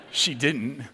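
ordinary talk, nothing marked

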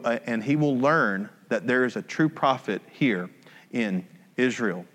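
calm scripture read. Acted. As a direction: read the passage evenly to the congregation. Reading scripture aloud.

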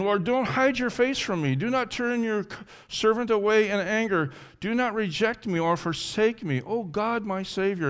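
high, insistent pleading; desperate prayer, not shouted; crying out to God. Acted. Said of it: "as he's crying out to God".

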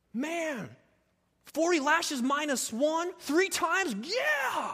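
high, loud, jokey shrug of a voice; mock carefree Paul. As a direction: play it off like it's nothing.

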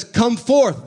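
a loud, high call of the name; loud cry. Acted. Jesus calling Lazarus out of the tomb, loud high cry. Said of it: "he cried with a loud voice".

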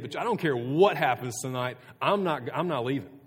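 loud insistent retold vow; boastful protest. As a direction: puff up and insist you'll never fall away. Peter boasting to Jesus, retold.

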